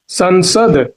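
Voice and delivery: संसद ending on a bare d; halant ending. Shown as a demonstration. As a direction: say संसद as san-sad, stopping on the d. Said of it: "द पर हलंत होगा". (संसद में द हलंत के साथ)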